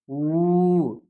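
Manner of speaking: "ஊ" held long and loud; long vowel. Shown as a demonstration. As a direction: stretch "ஊ" out strongly for learners. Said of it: "அப்படி நெடிலா உச்சரிக்கணும்". ("ஊ" நெடிலாக, நீட்டி)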